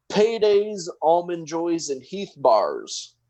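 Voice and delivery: starts high then slows to a drawn-out finish; deadpan nonsense. Retold or imitated. Marley answering the police officer, high then slowing deadpan. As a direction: list candy bars like it's a serious answer.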